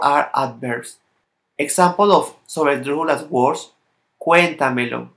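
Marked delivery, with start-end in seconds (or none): 4.2-5.1 cuéntamelo with the stress on "cuén"; stressed first syllable. Shown as a demonstration. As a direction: lean on "cuén" in cuéntamelo, then let the rest fall away. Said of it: "This is the s-, syllable before the third".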